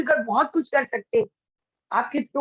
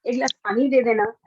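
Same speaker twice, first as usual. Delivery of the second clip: polite request. Shown as a demonstration. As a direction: ask kindly, gently. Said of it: "line वही थी, पूरा लहजा change हुआ". (विनम्र, नरम लहजे में गुज़ारिश)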